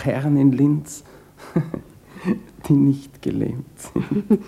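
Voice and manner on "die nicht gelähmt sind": slow, laughing tease; teasing laugh. Acted. Man teasing his old sweetheart about men in Linz, laughing. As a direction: laugh it out slyly, drawing it out.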